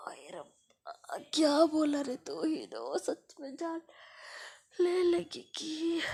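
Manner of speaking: hammed-up fearful wail ending in a fake cry; mock panic. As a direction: pretend terror, crying out. Swati mock-panicking at threat.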